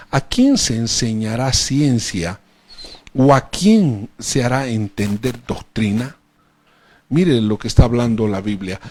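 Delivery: full-force preacher reading the prophet; preaching scripture. Acted. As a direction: proclaim each verse to the congregation. Loud slow scripture reading.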